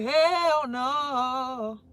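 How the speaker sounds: mild firm no; spiritual hygiene refusing. Pretend. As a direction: let your inner self say no. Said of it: "My spiritual hygiene said".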